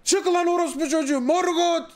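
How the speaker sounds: hammed-up war challenge; challenging shout. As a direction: call the dark lord out to fight. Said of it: "Bu da gidiyor bağırıyor".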